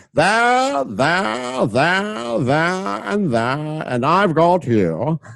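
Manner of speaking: put-on high, excited child voice thrusting swords; a playful kid calling out each hit; boy at play. Narrator voicing young Lucius at sword play, high and excited.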